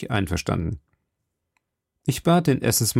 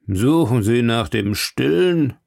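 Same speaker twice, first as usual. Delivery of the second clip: lightly voiced warder. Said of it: "sagte ein anderer Wärter".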